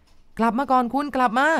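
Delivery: a man screaming for a woman wading out to sea; desperate shout. A narrator's reading. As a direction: throw the voice out to sea, pleading. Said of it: "ก็ตะโกนขึ้นไป".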